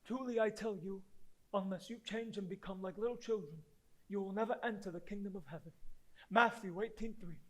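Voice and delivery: very soft, low recitation; hushed scripture recital. Acted.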